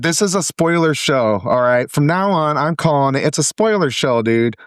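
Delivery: feisty, exasperated pushback. Real, not acted. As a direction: lay down the law to a buddy, worked up. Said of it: "You're feisty today".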